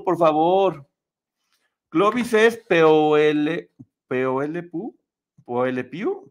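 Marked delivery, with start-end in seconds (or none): 1.9-6.3 slow letter by letter, "P O L" spelled out; slow spelling. Shown as a demonstration. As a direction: spell "P O L" slowly like a riddle. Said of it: "Pepe Le Pew". (deletreando "P O L" despacio)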